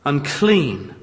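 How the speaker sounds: leper's loud warning cry; crying out unclean. Retold or imitated. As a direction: call out the warning to keep people away. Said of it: "and cry out".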